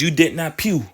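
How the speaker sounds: "pew" as "weep" reversed, falling; weep read backwards. Shown as a demonstration. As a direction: say "pew" like a punchline. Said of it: "let's read weep backwards".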